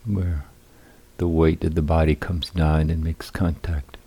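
unhurried guiding voice with long pauses; guided meditation. Real, not acted. Teacher guiding seated meditators into balanced posture, calm guided meditation. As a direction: lead them calmly through settling the body, phrase by phrase.

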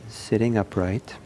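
unhurried guidance with long silences; calm meditation teacher, leaving room between phrases; guided meditation. Acted. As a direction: lead the sitters gently into stillness.

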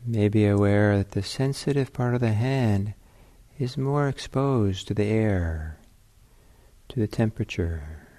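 unhurried meditation guidance with long pauses; guided meditation. Real, not acted. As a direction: ease them into the sitting, leaving space between phrases.

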